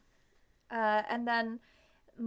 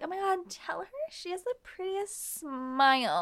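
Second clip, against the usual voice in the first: mock lovey-dovey gushing; 3 semitones higher, 4 dB quieter than usual. Lovers asking the prince to translate, mock gushing. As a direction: coo it, hammed up.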